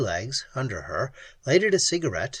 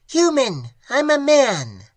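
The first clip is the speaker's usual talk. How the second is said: high, strange alien voice; alien creature; 11 semitones higher, 6 dB louder than usual. Acted. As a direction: speak like a clicking cave creature. Alien creature answers flatly.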